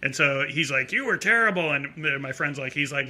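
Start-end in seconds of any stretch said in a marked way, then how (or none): 0.9-1.7 higher-pitched mock drunk critic; lightly voiced drunk. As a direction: imitate a tipsy guy's blunt verdict. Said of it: "And the guy's drunk".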